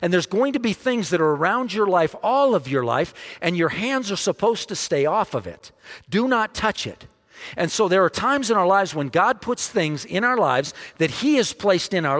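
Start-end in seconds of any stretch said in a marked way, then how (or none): 0.0-7.0 God speaking. Acted. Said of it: "And God is saying".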